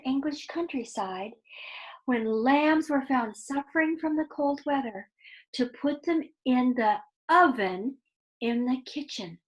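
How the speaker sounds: put-on expressive read-aloud to children; lively storyteller voice for kids; story narration. A narrator's reading. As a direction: tell it like a bedtime story, drawing them in.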